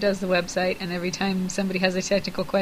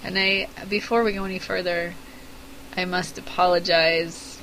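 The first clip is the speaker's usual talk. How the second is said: frog voice. Real, not acted. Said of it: "I didn't really mean to get my frog voice out".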